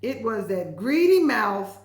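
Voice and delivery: slow, laughing words. Real, not acted. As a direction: laugh your way through the line. Laughing reading the line.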